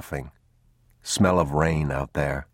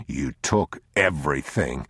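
unmoved man; 3 semitones lower than usual. Acted. Man tells the thief he took everything, unmoved. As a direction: answer him low, without yielding.

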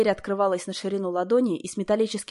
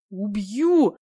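вой; 5 dB louder than usual. A narrator's reading. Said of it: "провыл кто-то".

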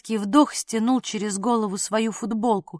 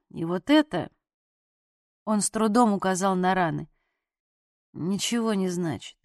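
injured man waving off her concern, low and tired; low, strained wounded man; 3 semitones lower than usual. A narrator's reading. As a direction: brush her off through pain, low. Wounded man brushing off help.

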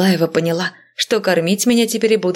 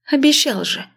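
indignant; 9 semitones higher than usual. A narrator's reading. Heroine indignant at missing husband.

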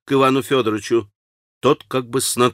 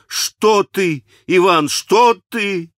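much higher, pleading and hurt; grieved, fervent; 9 semitones higher, much slower than usual. A narrator's reading. Горестно и горячо, намного выше. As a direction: Alyosha defending the sick girl to his brother, pleading. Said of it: "Горестно и горячо заступился Алёша".

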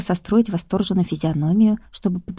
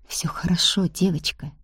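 soft languid murmur; languid whisper; 6 dB quieter than usual. Acted. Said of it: "томно прошептал он".

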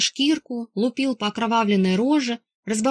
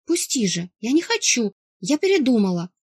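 sobbing plea; 2 semitones higher than usual. Acted. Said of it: "Кряхтя и всхлипывая, тарахтела сестра".

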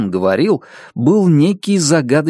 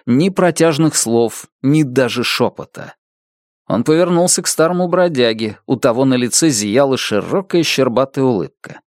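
ordinary delivery, nothing marked

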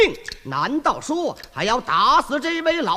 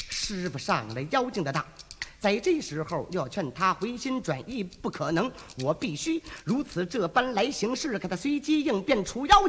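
inner thought; 5 semitones lower, 7 dB quieter than usual. Acted. Wukong thinks to himself.

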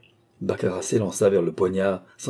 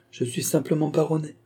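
calm, higher-pitched understatement; 7 semitones higher than usual. A narrator's reading. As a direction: state it lightly, without any push. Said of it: "avec le plus grand calme". (très calme, voix plus haute)

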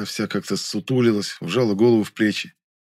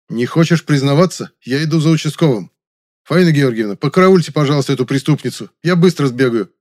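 loud threatening, higher; 5 semitones higher, 6 dB louder than usual. Acted. Young man threatens the maid with police, loud.

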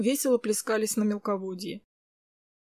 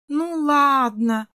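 put-on reluctant child; 4 semitones higher, 5 dB louder, much slower than usual. Kris gives in reluctantly.

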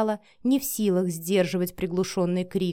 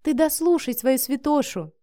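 higher, sarcastic, biting tone; venomous; 5 semitones higher than usual. Acted. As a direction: needle him with sarcasm. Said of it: "язвительным тоном произнесла Миранда".

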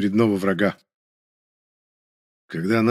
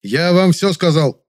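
loud, slow, higher bark; 8 semitones higher, 6 dB louder, slower than usual. A narrator's reading. Hero barking at the supervisor, loud and slow. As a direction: bark it so they jump. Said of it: "рявкнул я так".

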